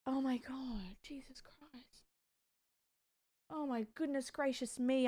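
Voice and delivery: breathless whispered disbelief; hushed Australian-style whisper of shock. Real, not acted. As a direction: whisper it, stunned by what you saw. Shocked at the clip.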